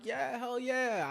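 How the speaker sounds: high, loud, drawn-out hell yeah; hyped-up cheer. Retold or imitated. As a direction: stretch it out, pumped to jump in. Hyped before the cannonball.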